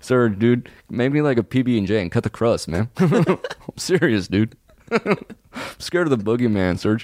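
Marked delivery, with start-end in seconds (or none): none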